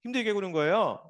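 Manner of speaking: whiny complaint, partly rushed; hammed-up grumbling to God; mock grumbling. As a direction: play the griping crowd in the desert. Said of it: "뭐 이렇게 막 원망했다고".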